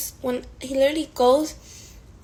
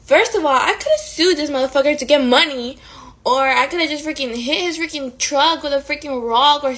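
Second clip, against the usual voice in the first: louder, heated rant; 3 semitones higher, 5 dB louder than usual. Retold or imitated. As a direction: vent the anger, punching each freaking. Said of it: "I was so heated".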